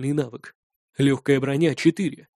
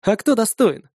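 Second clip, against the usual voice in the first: smirking; 6 semitones higher, 3 dB louder than usual. A narrator's reading. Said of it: "усмехнулся я".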